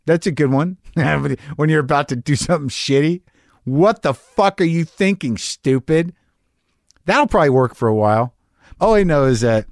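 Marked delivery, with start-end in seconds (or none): 3.6-6.1 harsh self-talk. Shown as a demonstration. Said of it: "try that one".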